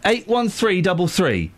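each digit spaced out slowly; slow and deliberate. Shown as a demonstration. Host repeats the number to a puzzled caller, slowly. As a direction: spell the number out slowly for him. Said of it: "listen again".

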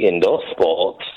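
sex voice. Real, not acted. Caller reading out list item three to the host, mild sex voice. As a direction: drop low with a hint of seduction. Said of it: "you said that in a sex voice".

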